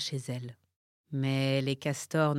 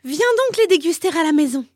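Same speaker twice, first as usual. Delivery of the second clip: turtle voice; 13 semitones higher, 12 dB louder, faster than usual. Acted. Turtle invites warthog.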